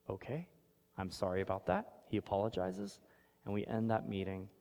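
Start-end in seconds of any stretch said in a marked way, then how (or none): 0.1-2.0 retold dad's subdued apology, a bit softer; gone quiet. Dad apologizes to the teacher, quiet and deflated. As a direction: let the air go out of him, quietly. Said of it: "My dad gets quiet".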